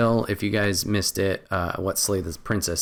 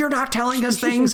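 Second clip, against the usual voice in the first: put-on yelling voice, higher pitched; 3 dB louder than usual. Describing voices in your head yelling at the narrator: imitating voices yelling. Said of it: "they're all yelling at each other and yelling at the narrator".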